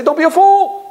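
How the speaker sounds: high, loud scornful jab; mocking retort. Preacher mocking the advice to a fearful man. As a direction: sneer it as a punchline.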